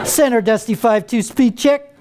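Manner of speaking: clipped, laid-back Navy pilot radio call; cool Navy pilot. Retold or imitated. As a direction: sound effortlessly cool on the radio. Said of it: "he talked very cool on the radio".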